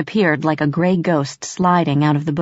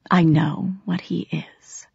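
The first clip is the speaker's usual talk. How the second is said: slow, breathy whisper; quiet whisper; 4 dB quieter, slower than usual. Acted. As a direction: hush it knowingly. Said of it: "Grimalkin said quietly".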